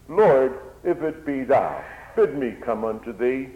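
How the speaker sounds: loud eager call to the Lord; urgent plea. Acted. Peter calls out to the Lord, loud and eager. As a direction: cry out eagerly.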